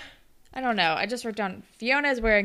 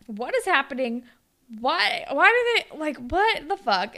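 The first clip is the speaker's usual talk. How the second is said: retold disbelief; 4 semitones higher than usual. Her own shocked reaction retold.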